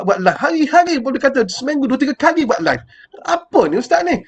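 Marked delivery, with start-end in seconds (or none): 3.2-4.2 higher, exasperated complaining; lightly imitating an irritated viewer; mock annoyed complaint. Viewer complains about too many lives, mock irritated. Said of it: "orang marah kat Ustaz".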